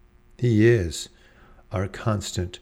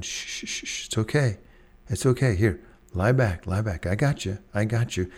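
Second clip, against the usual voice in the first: hushed shushing, then a gentle reassuring voice; calm someone down like a lifeguard; lifeguard soothing. Retold or imitated. Lifeguard calming a drowning swimmer, soothing hush. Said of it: "Kinda like a lifeguard does".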